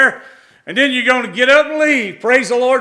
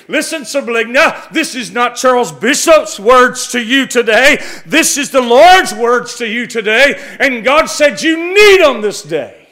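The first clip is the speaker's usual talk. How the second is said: fervent preaching; 7 dB louder than usual. Real, not acted. Preacher addresses congregation with God's word.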